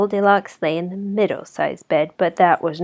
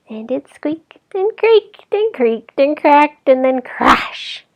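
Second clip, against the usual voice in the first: high, loud, slow build to crash; building suspense; 8 semitones higher, 5 dB louder than usual. A narrator's reading. Narrator building to the chair breaking, high and slow. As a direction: stretch the creaks, then crash. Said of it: "creaking chair narrated dramatically".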